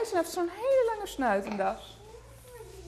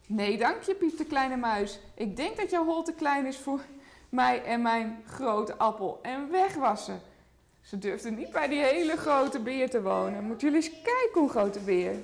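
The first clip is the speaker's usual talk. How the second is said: put-on lively picture-book read to a toddler; reading to children. A narrator's reading. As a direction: tell the story gently to a small child. (voorlezen aan een kleuter)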